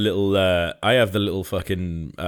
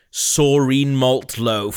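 announcer reveal; 4 semitones higher, 5 dB louder, much slower than usual. Pretend. Announcing the fake sponsor.

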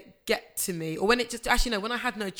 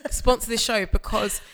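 earnest plea; 3 semitones higher, 5 dB louder than usual. Real, not acted. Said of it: "I'm being deadly serious".

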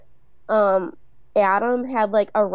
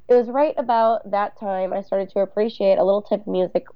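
voiceover narration. Retold or imitated. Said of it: "Carrie's voiceover says".

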